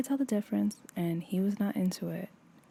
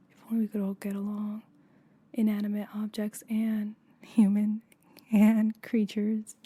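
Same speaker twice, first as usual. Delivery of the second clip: hushed, quick whisper; a whispered dreamy wish; 3 dB louder than usual. Acted. Repeated wish, whispered then spoken.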